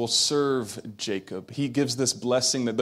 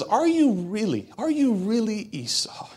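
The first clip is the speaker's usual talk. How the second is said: put-on higher, wary old father voice; a hint of a suspicious old father; old Isaac, puzzled; 10 semitones higher than usual. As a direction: ask it like a blind old man sensing something off. Isaac doubts disguised Jacob.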